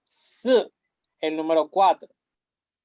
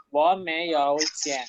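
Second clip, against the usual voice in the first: Wo meyo cien at a slow, careful pace; slow drill. Shown as a demonstration. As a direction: lay out Wo meyo cien for repetition. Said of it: "drills the phrase". (despacio para repetir)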